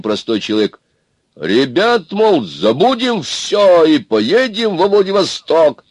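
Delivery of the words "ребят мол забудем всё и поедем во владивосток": high, loud, drawn-out appeal; pleading urging. A narrator's reading. Простой человек urges everyone to Владивосток, pleading. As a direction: coax the group, stretching the words.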